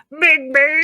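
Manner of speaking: loud, high, excited call; excited shout. Acted. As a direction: belt out the name. Excited repeat.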